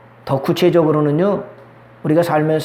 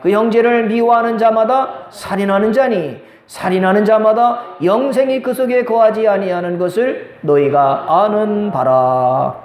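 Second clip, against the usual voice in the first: scripture reading. Acted. Preacher reading John's verse to congregation, scripture reading. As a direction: read out the verse, drawing out the last words. Reads Bible verse aloud.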